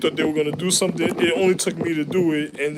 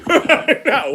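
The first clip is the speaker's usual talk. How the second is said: eager demand; 9 semitones higher, 4 dB louder than usual. Retold or imitated. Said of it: "You said".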